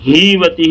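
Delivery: ہی وتہ with its first vowel overlong; wrongly stretched syllable. Shown as a demonstration. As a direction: drag the first hee in ہی وتہ. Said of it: "ہی نہیں کھینچنا".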